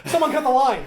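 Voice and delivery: high, loud, breaking into laughter; laughing loud. Retold or imitated. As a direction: shout the line through laughter. Acted film dialogue, laughing.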